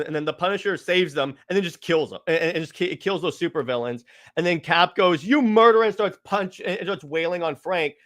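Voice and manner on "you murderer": mock-angry outburst, louder and higher; retold accusation. Cap accusing the Punisher of killing, acted outrage. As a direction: hurl a quick mock accusation.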